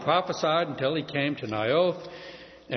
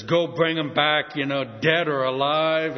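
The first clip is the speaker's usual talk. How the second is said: raging king; 4 dB louder than usual. Retold or imitated. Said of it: "he's just raging".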